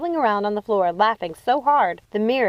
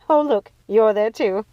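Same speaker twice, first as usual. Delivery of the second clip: Gothel; 2 semitones higher, 5 dB louder, slower than usual. A narrator's reading. Gothel admiring her reflection.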